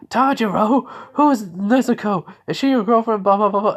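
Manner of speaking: high, loud, teasing singsong; loud, high-pitched mocking whine; teasing Zenitsu. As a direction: needle him like a nosy friend. Zenitsu teasing about girlfriend.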